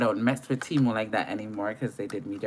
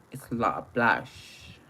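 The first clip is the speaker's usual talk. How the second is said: put-on horrible UK accent. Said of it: "That's my horrible U K accent".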